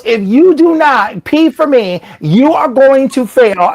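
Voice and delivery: high, slow, put-upon official; exasperated tester. Retold or imitated. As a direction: play the fed-up drug tester. Tester's exasperated warning, acted.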